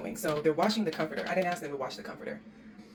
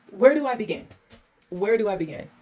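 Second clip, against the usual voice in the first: higher, much louder overwhelmed outcry; exasperated cry; 4 semitones higher, 8 dB louder than usual. Real, not acted. Host overwhelmed by the trashed rental, loud exasperated cry. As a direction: throw up your hands at the mess.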